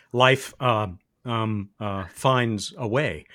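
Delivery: halting impression with drawn-out hesitations; slow, stammering movie-star parody, lightly done; Jeff Goldblum. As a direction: lightly imitate an actor groping slowly for each word. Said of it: "my best Jeff Goldblum, uh, impression".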